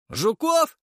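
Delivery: very high, rising yelp; surprised exclamation. A narrator's reading. Artyom overhears about the bugs, high and astonished. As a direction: blurt the question in shock. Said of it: "удивлённый возглас Артёма".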